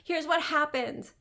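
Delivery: squealing fake-excited announcement, rushed; mock hyped coach post. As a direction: parody a breathless coach bragging online. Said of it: "one of those coaches that wrote a post like".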